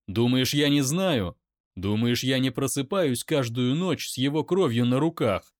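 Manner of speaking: loud shout back; loud pained shout; angry shout. Acted. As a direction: roar it in pain. Daimon shouts.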